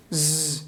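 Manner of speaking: ز buzzed with the voice on; voiced z demo. Shown as a demonstration. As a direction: make the ز vibrate. (ز واکدار)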